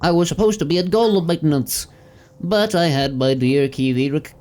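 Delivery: high, lilting robot helper voice; a gentle high machine voice; character voice. Acted.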